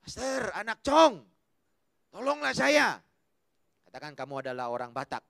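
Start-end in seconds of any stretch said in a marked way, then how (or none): 0.0-3.0 mock plea. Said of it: "Dahlah kamu kata".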